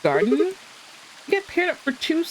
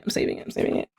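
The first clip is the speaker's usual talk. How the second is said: repeated softly, trailing off to herself; fading mutter; 3 dB quieter, faster than usual. Real, not acted. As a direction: mumble it quieter each time.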